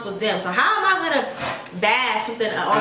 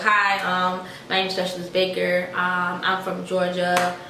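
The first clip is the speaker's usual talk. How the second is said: nervous introduction; 3 semitones lower, slower than usual. Retold or imitated. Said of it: "I was super nervous too".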